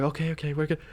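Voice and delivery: nice and sweet. Retold or imitated. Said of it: "nice and sweet".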